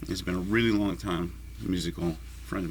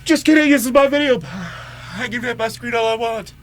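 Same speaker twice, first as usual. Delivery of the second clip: high, much louder defiant shout; 13 semitones higher, 9 dB louder than usual. Real, not acted. Vlogger defying his doctors about vaping on screen, shouting.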